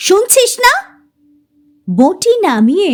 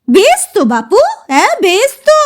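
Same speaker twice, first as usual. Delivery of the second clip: exasperated; 6 semitones higher than usual. Acted. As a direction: brush them off, irritated. Mother exasperated. (বিরক্ত মায়ের জবাব)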